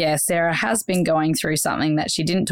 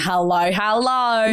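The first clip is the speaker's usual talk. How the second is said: slow, drawn-out Australian hello, hello; an Australian copying the co-host's signature hello; hello in her accent; slower than usual. Shown as a demonstration. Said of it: "It sounds way weirder in my accent".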